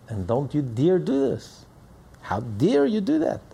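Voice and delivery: slow, high, stern reproach; acted parent's outraged rebuke; scolding parent. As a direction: scold the child word by word.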